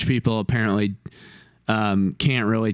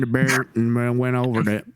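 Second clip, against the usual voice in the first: 1 thick Southern. Retold or imitated. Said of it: "Southern accent".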